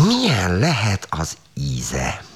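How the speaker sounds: slow, musing curious question. Acted. Tánya wonders aloud about the taste, slow and curious. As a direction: savour the question slowly. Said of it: "kíváncsiskodott tovább".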